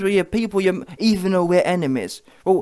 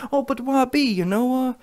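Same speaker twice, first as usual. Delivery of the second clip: mock critics; 3 semitones higher than usual. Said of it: "that's what you man told me".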